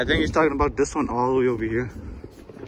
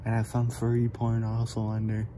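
horror movie victim. Pretend. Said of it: "pretend like I'm in a horror movie".

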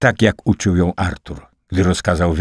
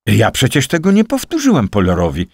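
raised, louder protest; shouting; 6 semitones higher, 5 dB louder than usual. A narrator's reading. Liza protesting her innocence to Klos, a raised, louder cry. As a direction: cry it out in denial. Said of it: "krzyknęła Liza".

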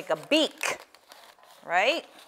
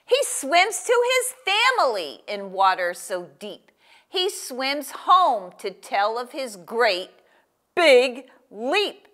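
loud, stretched-out picture-book reading; storybook read-aloud, punching the last words; reading to a child; 4 semitones higher, 6 dB louder, slower than usual. Acted. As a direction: read it big and slow, landing each key word. Reads story text aloud to a child.

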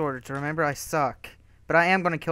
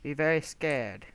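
slow, softer mock threat; imagined player voice; 2 semitones lower, 6 dB quieter than usual. Gamer imagines how a rival player sounds, slow mock menace. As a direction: lightly mimic an ominous challenger. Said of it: "like, that's how he sounds".

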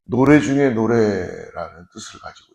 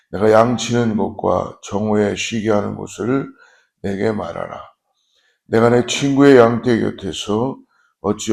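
scripture reading. Real, not acted.

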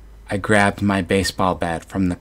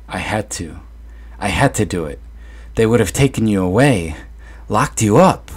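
mother pleading, rising to a louder cry; a frantic mother justifying herself, building louder; desperate mother; 2 semitones higher, 4 dB louder than usual. Acted. Mother confesses on the stairs.

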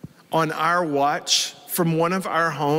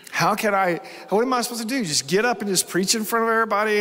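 mildly frantic questioning, higher and hurried; retold distress; 5 semitones higher, faster than usual. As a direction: voice your past overwhelm, a touch desperate. Retelling his despairing questions to himself.

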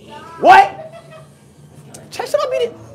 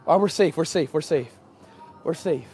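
much lower, softer repeated reassurance; real hushed relief; 13 semitones lower, 11 dB quieter than usual. Real, not acted. Visitor hushes to friends after escaping, quiet. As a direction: whisper to calm yourself. Hiding after being chased.

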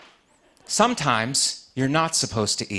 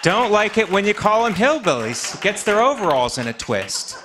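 raised, mock-earnest voice for the polite term; mock solemn pitch; 8 semitones higher, 4 dB louder than usual. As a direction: lift the voice high as if stating an official term. Joke about Indiana people.

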